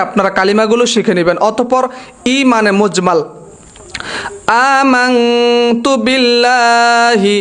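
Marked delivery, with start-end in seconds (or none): 4.7-7.4 slow recitation. Shown as a demonstration. Recites Arabic creed.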